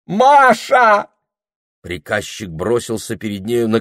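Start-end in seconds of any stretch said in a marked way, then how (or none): 0.1-1.1 high, loud call of her name; a passionate shout; loud cry. Acted. Clerk crying her name.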